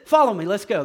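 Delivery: loud firm order; commanding Jesus. Retold or imitated. Jesus calls the disciples, firm commanding voice. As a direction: call them decisively. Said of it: "He said".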